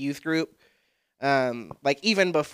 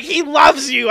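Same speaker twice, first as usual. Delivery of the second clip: mock church greeter; 10 semitones higher, 9 dB louder, slower than usual. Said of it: "they're like".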